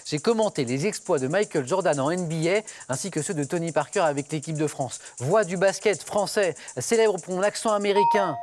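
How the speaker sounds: measured quiz-host reading over music; quiz clue read. Acted. Host reading a clue to the contestants, measured and clear.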